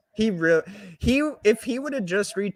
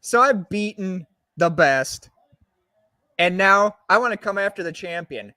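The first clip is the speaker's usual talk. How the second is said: wrestling promo. Pretend. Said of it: "I'll do a promo".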